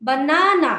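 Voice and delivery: বানানা in three beats, stretched middle না; measured বা-না-না, leaning on the middle; three-part pronunciation. Shown as a demonstration. Teacher showing three parts of banana, বানানা syllable by syllable. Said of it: "তিন পার্টে উচ্চারণ করতে পারি".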